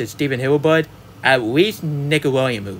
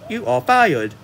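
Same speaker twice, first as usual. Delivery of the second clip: flat mock robot voice, slightly higher; 5 semitones higher than usual. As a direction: imitate a stiff robot saying it. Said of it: "worst robot voice".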